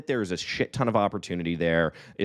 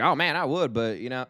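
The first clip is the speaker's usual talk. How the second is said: lightly voiced friend, higher and casual; a hint of Eric brushing it off; imitating Eric; 4 semitones higher than usual. Friend impersonating Eric's shrug-off reply. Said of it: "that's a great impersonation".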